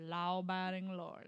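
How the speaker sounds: laughing through a Southern accent. Shown as a demonstration. Friend asks for the tongue twister in a Southern accent. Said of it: "Do it with a Southern accent".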